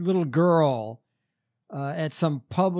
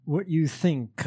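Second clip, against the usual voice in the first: radio host voice; slower than usual. Retold or imitated. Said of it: "Mike Pence's radio voice?".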